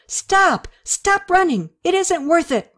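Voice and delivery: frantic shout to the running men; desperate yell. A narrator's reading. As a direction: call them back before they burn. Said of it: "she yelled".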